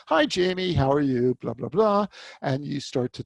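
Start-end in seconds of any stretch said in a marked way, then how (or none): 0.1-1.4 bright, louder stock hello; generic greeting. Shown as a demonstration. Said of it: "it's very common to say". 1.4-2.1 mock chatter. Shown as a demonstration. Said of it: "it's very common to say".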